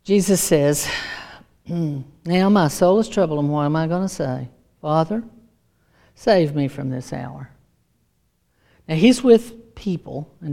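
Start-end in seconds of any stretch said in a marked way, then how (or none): 1.7-7.5 low, soft, troubled murmur to oneself; mildly anguished pondering; burdened. Acted. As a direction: voice a weighed-down soul, understated. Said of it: "he's burdened".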